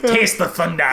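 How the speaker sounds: a hint of an ad announcer; lightly voiced soda ad tagline; mock advert slogan. Joking that the film is a soda ad, mock slogan. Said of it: "such an advert for Mountain Dew".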